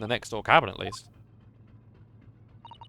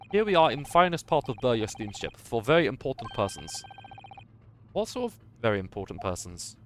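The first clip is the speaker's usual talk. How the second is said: lightly voiced sailor. The crewman proudly corrects Naruhodo, lightly voiced Russian sailor. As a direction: announce your name with pride, a hint of Russian.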